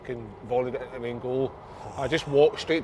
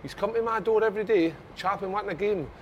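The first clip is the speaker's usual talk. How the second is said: high-pitched mock rant; put-on high complaining voice; imitated indignant coach; 8 semitones higher than usual. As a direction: play the exasperated manager, voice pitched up.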